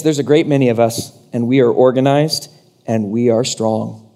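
low mock-menacing voice; demon horde. Preacher paraphrases the demons' boast, low menace.

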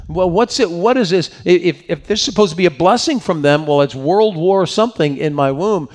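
exasperated mother. Acted. Rebecca questioning the war inside her womb, mildly exasperated. Rebecca complains about the struggling twins.

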